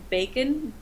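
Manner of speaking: put-on British pronunciation of bacon; British accent. Shown as a demonstration. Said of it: "say in a British accent".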